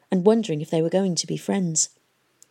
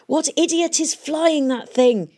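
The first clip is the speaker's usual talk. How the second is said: high, slow exasperated shout; 10 semitones higher than usual. A narrator's reading. Valentine shouting at Hester about the airship. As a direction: bellow across the wind. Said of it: "he shouted".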